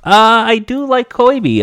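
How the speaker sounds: put-on drawn-out Jewish grandma accent, KOBE as "koy-bee"; slow hint of Jewish grandma. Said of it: "turn into a Jewish grandma".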